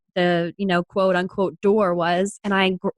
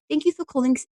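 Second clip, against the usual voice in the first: higher-pitched put-on French accent; 6 semitones higher, faster than usual. Shown as a demonstration. Restaurant worker greeting callers, shaky attempt at a French accent. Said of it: "do it in a French accent".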